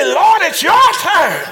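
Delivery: slow, loud, emphatic; loud declaration. Shown as a demonstration. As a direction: say it out for the church to repeat. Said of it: "say it with your voice".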